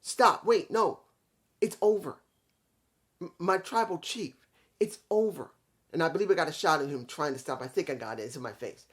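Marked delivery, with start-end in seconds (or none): 0.0-5.5 mock pleading. Sami begging his tribal chief to stop, imitated plea. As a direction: beg him to stop, half-acted.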